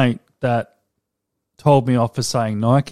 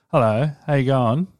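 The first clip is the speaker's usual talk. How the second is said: politely spoken South Australian greeting; lightly posh South Australian voice; posh South Australian accent. Retold or imitated. Showing co-host the nicer accent, posh South Australian. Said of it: "a bit more posh".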